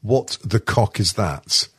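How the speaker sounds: slow, drawn-out mock bafflement; slow imitated disbelief; imagined baffled reaction. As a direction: stretch it out as a pretend puzzled listener. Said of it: "he'll probably listen to it and then hear my ropey old voice and go".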